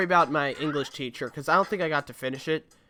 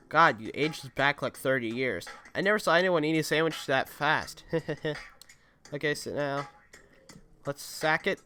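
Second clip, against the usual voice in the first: ordinary talk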